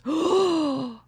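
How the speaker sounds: sharp imitated gasp; audience gasp. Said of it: "the whole audience goes".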